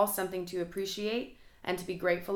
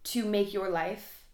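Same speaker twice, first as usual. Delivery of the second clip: words stretched by a real yawn; slower than usual. Real, not acted. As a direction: talk through a yawn, slowly. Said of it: "sorry, I'm yawning".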